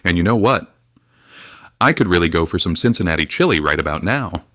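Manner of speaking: put-on Minnesota accent. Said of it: "Did you just develop a Minnesota accent?".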